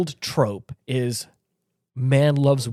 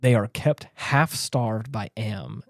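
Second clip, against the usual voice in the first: slow, measured read-out, dropping softer at the end; reading aloud; 3 semitones lower, 4 dB quieter than usual. Acted. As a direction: read the grim summary out deliberately. Reads plot summary aloud.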